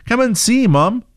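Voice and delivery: put-on very high excited child; girl's high, eager summons; exclaiming. A narrator's reading. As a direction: call mom over urgently, pitch way up. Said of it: "she exclaimed".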